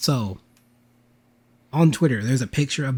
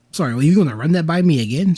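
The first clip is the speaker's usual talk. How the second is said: quick, higher, louder double take; retold incredulity; 4 semitones higher, 5 dB louder, faster than usual. Speaker retells questioning a friend's nature-picture story, incredulous. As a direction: ask as if you misheard.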